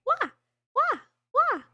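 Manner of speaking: high cat-like meows; meowing. Pretend. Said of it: "Good meowing".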